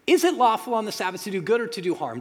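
loud, high and fast, demanding an answer; loud, urgent Jesus daring them to answer; forceful challenge. Acted. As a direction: throw the question at the room like Jesus confronting them. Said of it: "Jesus says".

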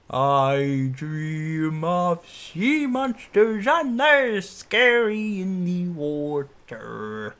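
slow, dreamy mumbling; sleepy dreamer voice. Pretend. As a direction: drag it out like sleep talk. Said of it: "Sorry, I'm gonna stop that".

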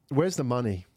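ordinary talk, nothing marked

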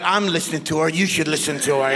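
low-pitched comic God voice. Retold or imitated. God telling the husband to heed his wife, deep-voiced advice. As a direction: drop deep for a divine ruling.

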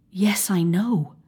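slow, hushed cut-off; shaken whisper. Acted. O'Donnell cutting off the physician, slow shaken whisper. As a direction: stop him, you can't bear it.

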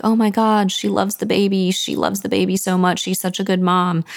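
put-on gushing over the baby in delight; thrilled retold father; excited. Trotty's excited reaction retold.

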